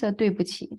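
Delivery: 对不起 said carefully, falling tone on 对 and 不; Mandarin phrase. Shown as a demonstration. Teacher modelling how to say sorry in Mandarin, careful tones. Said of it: "how we say".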